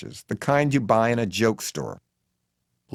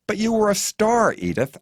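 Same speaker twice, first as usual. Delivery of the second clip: high-pitched proclamation, falling on the name; mild shout; 10 semitones higher than usual. A narrator's reading. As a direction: proclaim it for all to hear. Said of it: "I shout for the world to hear".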